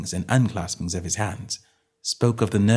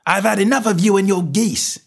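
higher, louder angry shout; 11 semitones higher, 5 dB louder than usual. Acted. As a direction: bellow at the pest. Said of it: "he shouted".

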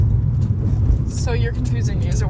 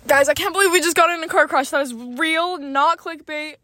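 excited to camera; 5 semitones higher than usual. Real, not acted. Addressing viewers after crash.

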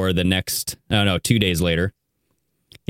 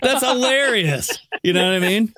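laughing; 11 semitones higher than usual. Real, not acted. Laughing at the text.

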